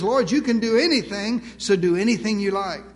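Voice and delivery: open-handed and trusting, leaving the choice to God; humble trust, no demands; trusting surrender. Retold or imitated. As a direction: offer it up gently, let Him choose. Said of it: "Faith says".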